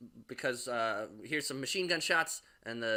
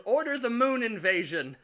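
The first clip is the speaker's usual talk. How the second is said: high, louder, laughing through the line; laughing quote; 8 semitones higher, 6 dB louder than usual. Retold or imitated. Quoting the actress, laughing mock order. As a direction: quote her while cracking up. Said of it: "She says".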